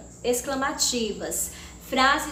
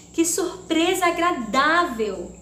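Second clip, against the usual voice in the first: higher, louder delighted "Que surpresa agradável!"; exclamatory surprise; 5 semitones higher, 5 dB louder than usual. Shown as a demonstration. Teacher reading an exclamation aloud for the class, delighted. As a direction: read it as a happy surprise. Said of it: "Prestem atenção".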